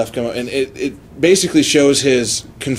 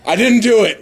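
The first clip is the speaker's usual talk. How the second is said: mildly anguished plea, slightly raised; anguished retold protest; 4 semitones higher than usual. Accused kid protesting to the authorities, mildly anguished. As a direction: protest innocence with a touch of mock anguish. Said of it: "imagine this kid's anguish".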